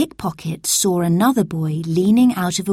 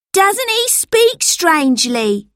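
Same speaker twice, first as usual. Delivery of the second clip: higher, slow, teasing sneer; mocking street boy; 11 semitones higher, 4 dB louder, slower than usual. A narrator's reading. Second pickpocket teases Robert's speech, slow and sneering. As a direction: taunt him, slowly. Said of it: "said the other boy".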